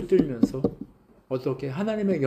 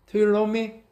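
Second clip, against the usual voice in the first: "Do you love me?" milder, barely raised; Jesus asking for philo; 5 semitones higher, much slower than usual. Retold or imitated. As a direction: ask it gently, lowering the bar. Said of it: "필로에로 물어봐요".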